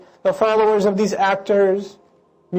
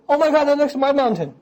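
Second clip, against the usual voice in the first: excited neighbour; 7 semitones higher than usual. Acted.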